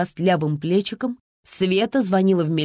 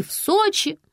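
very high call; 13 semitones higher, slower than usual. Acted. Daughter calls her mother from afar, shouting. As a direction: shout it down a bad line. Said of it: "прокричала Вика".

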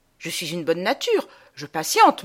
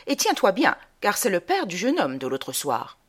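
mother's urgent instruction. Acted. Mother tells fillette how to behave for the visitor, urging. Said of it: "fait ma mère".

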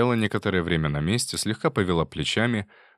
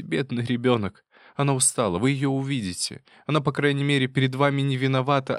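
raised, pleading voice rising to a cry; tearful plea; 4 semitones higher than usual. Acted. Wife pleading to husband, tearful and raised. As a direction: lament your misery, near tears. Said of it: "воскликнула ... залилась слезами".

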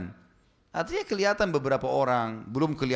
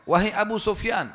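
calling out across a distance, raised and high; retold loud call; 5 semitones higher, 4 dB louder than usual. Abbas calling out to Abu Sufyan from afar, raised shout. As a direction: hail him from far off. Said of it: "teriak dengan keras".

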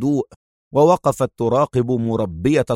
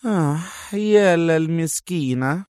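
sarcastic; 6 semitones higher, slower than usual. Acted. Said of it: "ساخرة".

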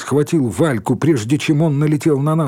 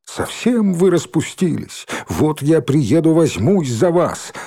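mild, drawn-out scolding, pitched up; scolding threat; 5 semitones higher than usual. Acted. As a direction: scold them with a slow, raised warning. Scolding threat voiced in a story.

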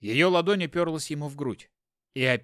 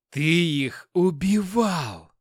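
slow, louder accusation; raised voice; 3 semitones higher, 6 dB louder, much slower than usual. Acted. Wife accuses Hopkin of killing, raised voice. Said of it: "возвысила голос она".

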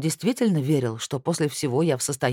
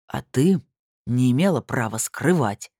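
сердито, громче обычного; возразить с раздражением; 4 dB louder than usual. Acted. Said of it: "также сердито возразил он". (сердито возражает, громко)

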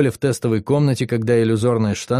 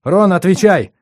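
loud, higher urging shout; urgent command; 7 semitones higher, 6 dB louder than usual. Acted. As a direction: shake him awake with your voice. Yuri urges dazed Ron.

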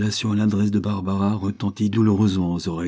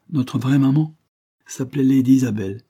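put-on earnest little girl; 5 semitones higher, 6 dB louder than usual. Child character speaking.

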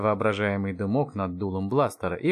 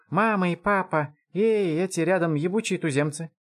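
high, voiced child's exclamation; loud excited whisper; 8 semitones higher than usual. A narrator's reading. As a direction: blurt it like an excited kid. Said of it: "громко прошептал Робокоп". (взволнованный детский возглас)

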